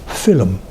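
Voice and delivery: "film" in two syllables, fill-um; old pronunciation. Shown as a demonstration. Lecturer sounding out the old spelling, "film" as fill-um. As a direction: say "film" with a vowel between l and m, low. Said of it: "So we know how it was spelt, uh, pronounced".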